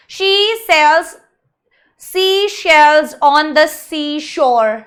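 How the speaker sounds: slow, stretched-out recitation; very slow, deliberate phrasing; tongue-twister demonstration. Shown as a demonstration. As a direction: draw out each word of the tongue twister.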